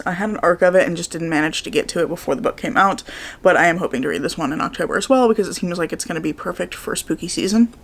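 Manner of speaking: slightly hoarse morning voice. Real, not acted. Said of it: "I'm still a little hoarse".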